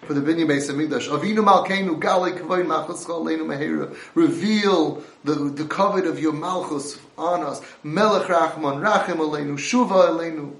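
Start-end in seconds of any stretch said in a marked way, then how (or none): 1.1-10.5 louder pleading prayer, stretched words; fervent prayer. Real, not acted. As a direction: cry the prayer out with longing. Preacher chanting prayer fervently.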